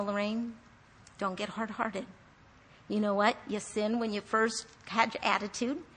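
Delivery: softly voiced correction from the Lord; soft, sober word of warning; quiet admonishment.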